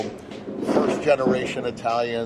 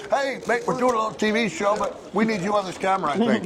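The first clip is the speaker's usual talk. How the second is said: higher-pitched, friendly hail to a passer-by; raised-pitch call to a passer-by; calling someone over; 8 semitones higher than usual. Real, not acted. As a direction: coax a stranger onto the camera, pitched up. Beckoning a passer-by onto camera.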